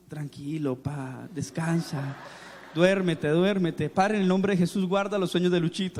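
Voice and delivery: low, gentle lullaby-like prayer; mock-tender pastor lulling him to sleep; soothing pastor. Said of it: "está el pastor en mi cama así".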